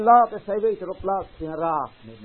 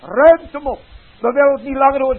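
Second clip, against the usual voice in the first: loud, higher, fast and furious; angry crowd; 6 semitones higher, 9 dB louder, faster than usual. Acted. Crowd shouting down the preacher's message, fast furious yell. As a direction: throw the words out in disgust.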